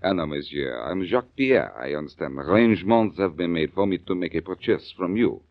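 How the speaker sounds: a hint of a French accent, unhurried. Blackie as Jacques Pierre explaining his purchase, mild French accent. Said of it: "Gonna try out your French accent?".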